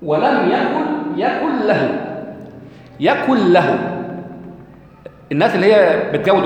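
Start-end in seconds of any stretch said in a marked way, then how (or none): 0.0-2.1 ولم يكن very slow, the نون of يكن clearly sounded before له; no nasal merge. Shown as a demonstration. Preacher shows the congregation the tajweed of يكن له, very slow. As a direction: pronounce يكن له with a full نون, slowly. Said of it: "أنت ما بتنطقش النون".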